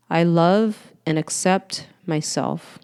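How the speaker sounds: slow affirmation after breath. Shown as a demonstration. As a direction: let it sink in on the exhale. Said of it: "Breathe that in".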